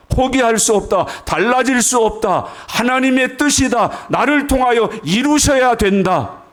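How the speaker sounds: high-pitched, insistent proclamation; forceful preaching. Acted. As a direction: declare each phrase as an unshakable vow. (높은 소리로 단호하게 선포하듯)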